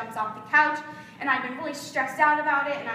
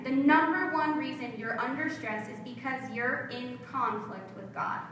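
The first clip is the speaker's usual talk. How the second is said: softer repeat; 6 dB quieter than usual. Shown as a demonstration. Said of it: "Hear it again".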